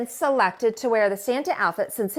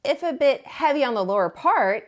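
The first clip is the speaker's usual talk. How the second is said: a fussy penguin being practical; prim penguin voice; 3 semitones higher than usual. Acted. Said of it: "added Angel Neatly and Perfect".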